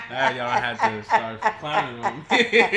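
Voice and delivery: loud, high, slowed by laughter; laughing protest. Retold or imitated. Speaker retelling family teasing him, laughing protest. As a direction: protest through big laughs.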